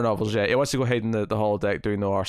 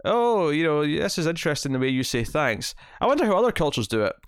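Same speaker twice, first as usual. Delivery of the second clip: higher, quick, feigned interest; mock eager Picard; 3 semitones higher than usual. Host imitates Picard deflecting a flirty dinner, falsely bright. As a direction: dodge the flirting with cheery curiosity. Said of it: "he basically says".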